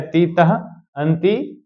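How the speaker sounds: तीतः ending in a clear breathy "h"; careful visarga. Shown as a demonstration. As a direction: model तीतः with its visarga for the class. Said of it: "तो इसलिए ध्यान रखिएगा".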